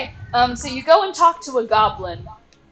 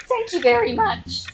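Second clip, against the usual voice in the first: higher, grateful goblin; pitched-up thanks from a small goblin; 10 semitones higher than usual. Acted. Goblin thanks the adventurer, pitched-up grateful voice. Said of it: "the goblin just goes".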